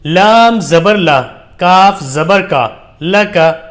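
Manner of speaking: slow, measured recitation with long-held letter names; drawn-out teaching recitation; Qaida spelling drill. Shown as a demonstration. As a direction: spell it out deliberately for beginners to repeat.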